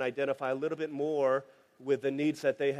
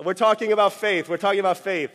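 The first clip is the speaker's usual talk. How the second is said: laughing emphasis; 4 semitones higher, 8 dB louder than usual. Real, not acted. Repeated for emphasis after laugh.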